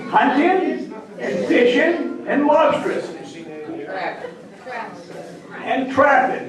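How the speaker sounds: hunting, fishing said as huntin', fishin'; dropped final G. Shown as a demonstration. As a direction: end lobstering and trapping in "-in", no G. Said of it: "eliminate the G from any word ending".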